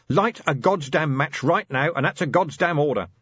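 loud, commanding bark; angry order. A narrator's reading. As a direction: snap the order out. Vimes barking orders in darkness.

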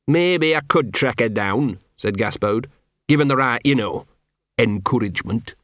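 a hint of a gruff, put-upon street dog; grumbling self-pity, lightly voiced; lightly voiced scruffy dog. Gaspode telling Carrot his sad life, lightly grumbling.

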